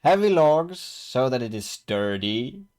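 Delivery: exasperated protest. Acted. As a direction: stress the absurdity of undoing your hard work. Peter protests moving his compost.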